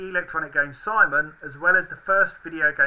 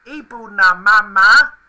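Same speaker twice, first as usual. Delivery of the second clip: high Furby voice; 5 semitones higher, 11 dB louder, slower than usual. Pretend. Furby phrase read out again.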